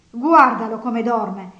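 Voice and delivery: loud, slow, outraged scolding; indignant exclamation. A narrator's reading. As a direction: scold him loudly, drawing it out. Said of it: "esclamò lei indignata". (esclamazione indignata, forte e lenta)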